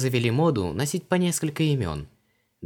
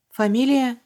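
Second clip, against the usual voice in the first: «Фамилия» repeated very high and louder with a falling stumble; caught-off-guard echo; 7 dB louder than usual. A narrator's reading. Vanessa caught out by Luise's question, stumbling. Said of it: "запнулась Ванесса".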